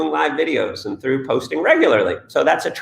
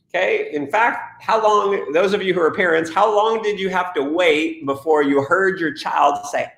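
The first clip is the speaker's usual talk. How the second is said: ordinary talk, nothing marked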